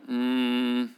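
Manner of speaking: low, knowing mutter of red flag; suspicious warning. Retold or imitated. Congregation sensing the trap, low and wary. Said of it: "how many of you are going".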